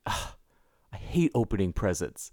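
low, quiet mock grumble; imitating a fed-up party guest under their breath; grumbling reaction. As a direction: groan it out, dropped low and soft. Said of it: "Everybody's reaction".

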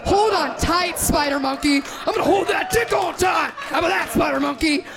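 hammed-up movie quote. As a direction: belt the line like a fangirl. Quoting Twilight line, yelled.

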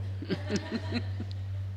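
breathy voiceless chuckle; soft, wheezy laugh without voice. Real, not acted. Preacher laughing at his own blunt preaching, soft voiceless chuckle.

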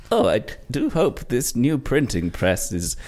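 high-pitched, hammed-up old granny; slow fretting that climbs into a loud, high mock death wail; grandma's death flashback. Comedian acts out great-grandmother caught in a printing press, put-on granny voice. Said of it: "flashback to the grandma's death".

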